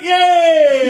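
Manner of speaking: high, loud, drawn-out whoop; overjoyed cheer. Retold or imitated. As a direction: re-enact an elated cheer at full volume. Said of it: "he was so happy".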